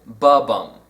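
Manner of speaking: "ba-bum" with light "ba", punched "bum"; ba-BUM, weak then strong; iambic stress. Shown as a demonstration. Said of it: "unstressed syllable and is followed by a stressed syllable".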